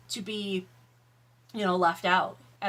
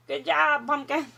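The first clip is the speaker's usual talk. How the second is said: sarcastic praise; 5 semitones higher, 4 dB louder than usual. Acted.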